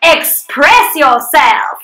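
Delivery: slow Southern American drawl; demonstrating a hammed-up Southern American accent. Shown as a demonstration. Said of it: "in your most Southern American accent".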